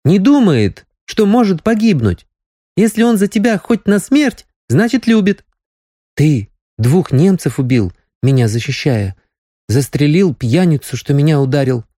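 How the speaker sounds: put-on young girl, insistent. Nastya continues, excited.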